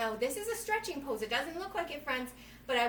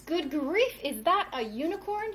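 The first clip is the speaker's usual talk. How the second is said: a louder, higher mock shriek of surprise; 3 semitones higher, 7 dB louder than usual. Truck driver spotting a unicorn, hammed-up surprised shriek. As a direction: gasp it like a startled truck driver. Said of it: "he shrieked in great surprise".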